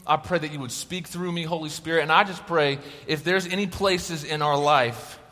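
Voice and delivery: a gentle, hushed plea to the Holy Spirit; opening prayer. Acted. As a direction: pray over the room quietly. Leads the room in prayer.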